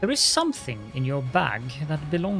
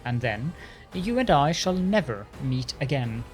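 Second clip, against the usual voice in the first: arrogant lich voice. Acted. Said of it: "Arrogance rings in the lich's voice".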